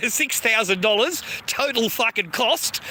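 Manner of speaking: slow, laughing through the words; laughing disbelief. Real, not acted. Streamer scoffing at a government contract, laughing and slow. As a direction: laugh at the absurd cost as you say it.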